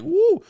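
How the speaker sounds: high, loud whoop; imitated woo. Imitating the woman who got wet, high whoop. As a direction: toss out a mock thrilled "woo". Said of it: "She like".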